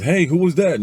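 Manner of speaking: high, loud casual call. Acted. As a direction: call it out to someone in another room. Husband calls to wife from upstairs.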